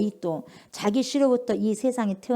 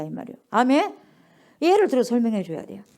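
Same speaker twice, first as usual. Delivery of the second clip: ordinary talk, nothing marked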